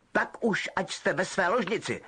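lightly voiced stern prefect; Percy sending the boys to bed; sternly. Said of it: "řekl Percy přísně".

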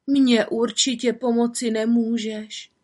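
hopeless sighed line; sighing. Acted. Woman sighs to the little witch, hopeless. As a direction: sigh it out. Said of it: "vzdychla žena".

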